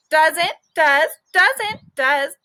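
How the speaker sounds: squeaky playful arguing; bickering guinea pig. Acted. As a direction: squabble like a tiny pet. Guinea pig bickering back and forth.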